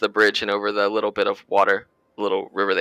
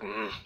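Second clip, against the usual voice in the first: dwarf's grunt; 11 dB quieter than usual. Acted. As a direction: grunt softly like a dwarf at work. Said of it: "he just kind of grunts".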